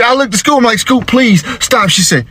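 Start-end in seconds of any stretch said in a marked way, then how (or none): 0.8-1.9 slow, high-pitched begging; alarmed pleading. Acted. Dad begging his daughter to stop, high drawn-out plea.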